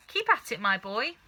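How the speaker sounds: put-on egging the boy on, bright and pushing; eager cry. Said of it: "cried Mister Cranky".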